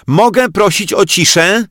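high, loud, commanding request; question as command. Acted. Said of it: "w taki sposób, jakby to był rozkaz".

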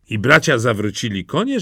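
plain reading voice

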